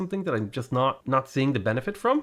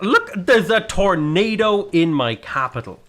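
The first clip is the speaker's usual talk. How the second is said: laughing disbelief; 5 semitones higher, 3 dB louder, slower than usual. Real, not acted. Laughing at bad luck.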